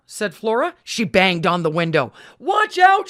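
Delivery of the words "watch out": high alarmed shout, louder. Acted. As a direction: yell a warning out the window. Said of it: "she shouted".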